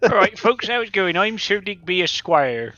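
character introduction. Acted. Player introducing his new character to folks, mildly hammed-up. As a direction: greet the crowd as a hobo gentleman.

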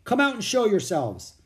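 loud, high order; commanding call. A narrator's reading. Captain ordering the hidden children out, commanding. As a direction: call them out firmly.

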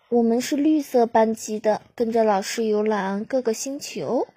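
a touch of pride, spoken out loud; proud. Acted. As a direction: boast a little to the new friends. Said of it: "非常自豪地向他们解释道".

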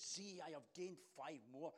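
mildly excited servant reporting success. Acted. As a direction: report it proudly to the master. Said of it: "it carries with it an excitement".

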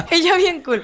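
high laughing words. Real, not acted. Laughing at herself for acting cool in the story. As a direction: laugh through it, embarrassed.

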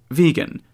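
Vegan with a long drawn n and rising end; owner's own accent. Shown as a demonstration. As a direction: say Vegan as VEE-gun, rising. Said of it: "I replied in my own accent".

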